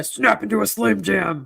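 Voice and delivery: slow, hammy ad slogan; Slim Jim ad voice. Retold or imitated. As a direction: deliver it like the commercial catchphrase.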